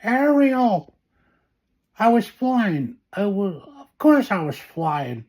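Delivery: breathless, high frantic babble. Acted. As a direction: blurt it out in a panic. Frantic news about prince's wedding.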